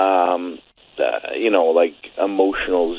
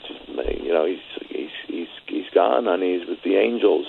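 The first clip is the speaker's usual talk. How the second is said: tearful, hushed comfort; 6 dB quieter than usual. Retold or imitated. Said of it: "I was crying".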